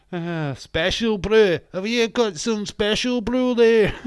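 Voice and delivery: high, loud, drawn-out holler; mock drunken shout. Streamer teasing drunk Scottish viewers, mock hollering. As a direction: holler it like a rowdy drinker.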